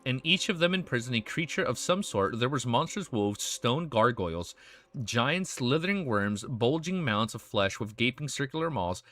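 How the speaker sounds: steady, measured novel reading; story narration. A narrator's reading. Streamer reads dark fantasy to viewers, in story narration. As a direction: read the tale aloud, falling at sentence ends.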